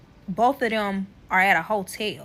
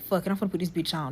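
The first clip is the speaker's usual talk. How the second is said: low, soft, quick aside to herself; inner thought; 4 semitones lower, 7 dB quieter, much faster than usual. Retold or imitated. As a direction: say it quietly, as if thinking it. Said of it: "That's what I'm saying in my head".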